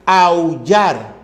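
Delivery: "Aullar" drawn out as au-llar; diphthong shown. Shown as a demonstration. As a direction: keep au in one syllable in "Aullar". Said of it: "Es diptongo".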